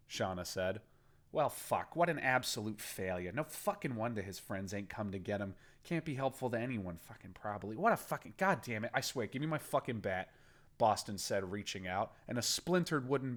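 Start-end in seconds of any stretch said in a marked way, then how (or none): 1.3-10.3 frustrated gang boss. Acted. Boston fuming to his guards, asking for his bat. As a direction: vent at the failure, swearing.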